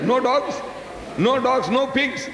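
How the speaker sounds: high, mock-astonished listing; playful disbelief at an island with no dogs; mock amazement. Real, not acted. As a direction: pitch it up in teasing wonder.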